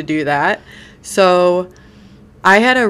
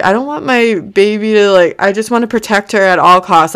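higher, real near-tears voice; close to tears; 4 semitones higher, 4 dB louder than usual. Real, not acted. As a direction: say it on the verge of crying. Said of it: "I'm about to cry right now".

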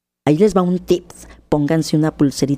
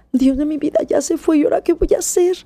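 dismayed panic; 9 semitones higher, faster than usual. Retold or imitated. Wife regrets husband leaving.

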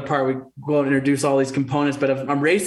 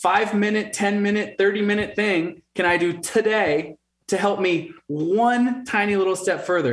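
slow self-question; 5 semitones higher than usual. Shown as a demonstration. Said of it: "just ask yourself every day".

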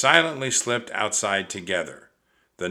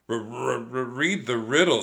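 teeth chattering; 3 semitones higher than usual. Acted. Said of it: "her teeth chattering".

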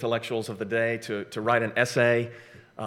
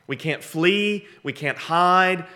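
slow emphasis; 5 semitones higher, slower than usual. Real, not acted. Preacher slows for emphasis.

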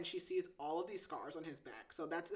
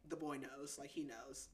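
low, soft comforting quote; softly acted-out consoling; gentle reassurance; 4 semitones lower, 10 dB quieter than usual. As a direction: drop your voice to reassure tenderly. Retelling hero comforting the crying heroine.

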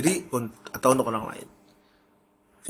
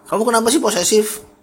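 high, louder mock complaint; complaining partner; 8 semitones higher, 5 dB louder than usual. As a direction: whine at a possessive partner.

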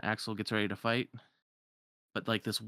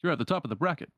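higher, projected presenter voice; raised-pitch emcee delivery; tournament producer; 5 semitones higher, 4 dB louder than usual. Acted. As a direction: address both contestants like an event host. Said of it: "And then the producer".

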